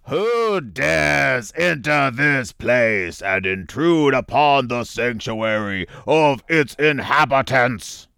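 slow, booming monster mouth; Magic Mouth voice. Acted. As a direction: intone it like a menacing guardian. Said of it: "we're gonna do the Magic Mouth text".

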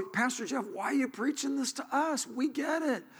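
high, whiny congregant; a hint of an impatient congregant; mock complaining listener. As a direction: playfully voice a bored listener.

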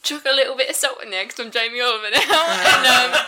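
put-on Cockney accent gone Essex; a Cockney accent sliding into Essex. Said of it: "My Cockney accent's gone a bit Essex now".

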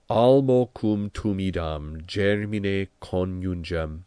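measured, careful reading of Latin poetry; recited Latin verse. Shown as a demonstration. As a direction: read it out like prose, clear and even. Reads the Latin hymn text.

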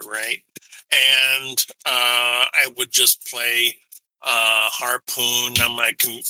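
tinny mic sound; tin can phone. Real, not acted. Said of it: "you sound like you're talking into a tin can".

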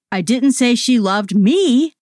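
slow, me falling at the end; stress on ME. Shown as a demonstration. Final stress demo for a listener, me stressed. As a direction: land the sentence on me. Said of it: "say the following sentences".

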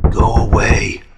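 loud, firm go away; shouting go away. Acted. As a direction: send them off sharply. Yelling at knocking visitor.

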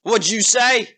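put-on affronted ogre voice; offended ogre. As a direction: challenge the insult as an ogre. Ogre reacts to insult.

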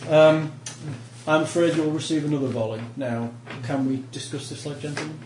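a hint of a formal, threatening officer; courteous warning, calm on the surface; lightly voiced polite officer. NPC officer addresses the party.

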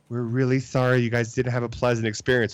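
low, placating apology; apologetic doctor. Retold or imitated. Doctor apologizing to upset patients, low and placating.

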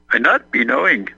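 light put-on Irish accent, half-joking; a hint of an Irish accent. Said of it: "you're doing your Irish accent".

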